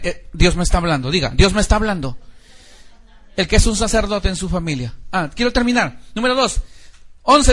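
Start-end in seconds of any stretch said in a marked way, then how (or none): 0.3-2.2 fervent preacher calling out; preaching. Acted. Pastor preaching to his church, fervent call. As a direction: preach it to the congregation.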